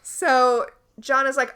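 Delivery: normal talking voice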